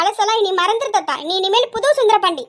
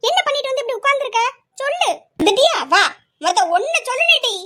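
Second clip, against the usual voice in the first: higher-pitched angry questioning; 3 semitones higher than usual. Acted. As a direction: demand answers, worked up but not shouting. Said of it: "நீ இப்படி கோவப்படுற". (கோபமாகக் கேள்வி கேட்பது)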